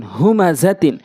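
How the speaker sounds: syllables joined into one word; quick reading. Shown as a demonstration. Teacher showing how it must be read, quickly. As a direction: read it briskly, vowels short. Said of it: "দ্রুতটা উচ্চারণ করতে হবে".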